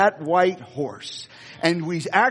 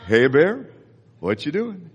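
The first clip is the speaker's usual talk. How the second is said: Yogi Bear voice; 2 semitones lower than usual. Retold or imitated. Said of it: "kinda like Yogi Bear".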